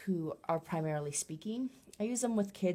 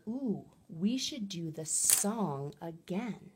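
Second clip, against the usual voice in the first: put-on slow, lilting ooh to a child, lightly done; gentle therapist voice offering the song again, only lightly marked; child-directed suggestion; much slower than usual. Shown as a demonstration. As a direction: invite the child to sing again. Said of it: "But I might say something like".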